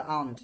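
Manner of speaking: "আউন্ট" said aa-unt, r left out; silent r. Shown as a demonstration. Teacher explaining the silent r, "আউন্ট" without it. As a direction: drop the r completely in "আউন্ট". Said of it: "আর উচ্চারণ করবেন না".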